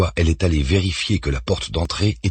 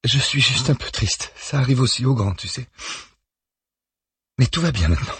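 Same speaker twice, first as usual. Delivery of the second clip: reassuring; 8 semitones higher than usual. A narrator's reading. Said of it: "assure-t-elle".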